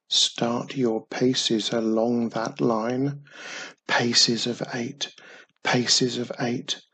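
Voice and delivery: slow, measured verse recital; recited rhyme. A narrator's reading. Boy recalling treasure map's hidden rhyme, measured recital. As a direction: recite it rhythmically like a secret riddle. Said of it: "recounted the hidden rhyme".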